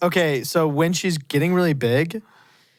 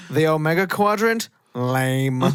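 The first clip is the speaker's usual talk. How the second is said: dismissive retort. Retold or imitated. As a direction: imitate him scoffing at the name. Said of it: "And then he goes".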